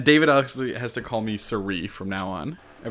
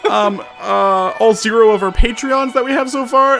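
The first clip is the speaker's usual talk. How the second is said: mock emotional; 10 semitones higher than usual. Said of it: "I'm getting emotional".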